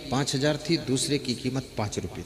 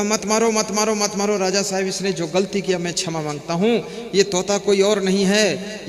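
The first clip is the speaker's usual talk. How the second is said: raised, urgent plea without real sobbing; mock frantic pleading; 4 semitones higher, 5 dB louder than usual. Parrot begging the king to spare his brother, acted pleading. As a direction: plead for mercy, mildly acted. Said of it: "वो रोने लगा, तड़फड़ाने लगा, छटपटाने लगा".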